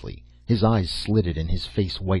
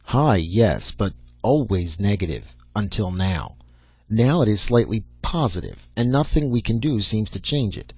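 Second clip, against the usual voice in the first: put-on lecturing old professor; 3 dB louder than usual. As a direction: lay down the theory like an exacting old scientist.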